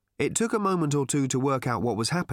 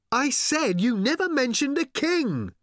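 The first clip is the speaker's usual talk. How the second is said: high, insistent shout; 14 semitones higher, 3 dB louder than usual. A narrator's reading. Arthur repeating himself to old man, high shout. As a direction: repeat it loudly over thundering noise. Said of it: "shouted Arthur again".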